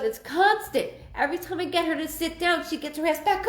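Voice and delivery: high, fast teasing complaint; teasing husband. Retold or imitated. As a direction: rattle it off high and fast, mocking her restlessness. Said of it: "He goes".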